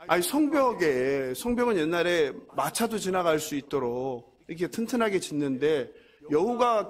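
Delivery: normal talking voice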